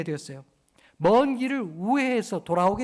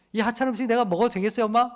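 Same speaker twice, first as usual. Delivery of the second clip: quick, mock-polite child's question; child asking mom; 2 semitones higher, faster than usual. Pastor imitates a child asking his mother about dinner, fast mock-polite. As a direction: ask mom sweetly but cheekily. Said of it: "이렇게 얘기하는 사람 자식 있어요".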